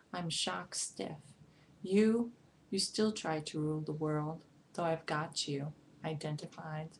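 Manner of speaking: deliberate poetry recital, slow on the long lines; measured, emphatic verse reading; poem reading. Acted. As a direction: read it as a poem, addressing the heart, stressed openings and measured pauses. Reads a poem aloud.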